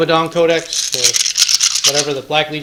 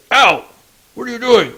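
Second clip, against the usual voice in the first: louder, higher pained protest; acted indignant victim; 6 semitones higher, 5 dB louder than usual. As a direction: yelp it like a trooper hit by mistake. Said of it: "You see this guy goes".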